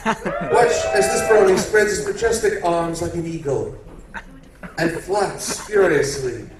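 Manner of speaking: hushed wildlife documentary narrator; nature documentary. Acted. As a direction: narrate like a nature show host. Nat Geo documentary narration.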